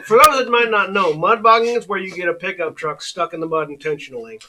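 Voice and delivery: Southern accent. Real, not acted. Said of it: "your Southern accent is kicked in for that entire sentence".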